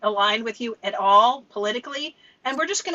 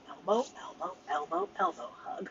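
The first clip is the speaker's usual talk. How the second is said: much softer, almost under the breath; hushed repetition; 14 dB quieter than usual. Pretend. Inching in elbow by elbow, in a hushed voice. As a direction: let it shrink to a small murmur. Comic repetition, fading away.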